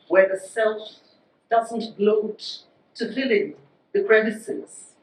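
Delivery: measured poetry reading, phrase by phrase; poem recitation. Acted. Poet reads a poem about home, measured recitation. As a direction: read it as verse, with deliberate pauses.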